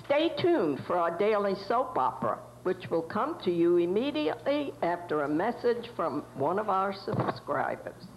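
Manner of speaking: am radio. Acted. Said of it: "as it would have been broadcast from a nineteen twenties radio station studio".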